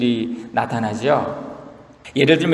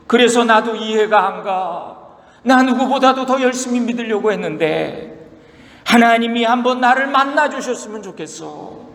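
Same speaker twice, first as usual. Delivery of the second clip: frustrated Job; 5 semitones higher than usual. Retold or imitated. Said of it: "욥이 오죽 답답하면".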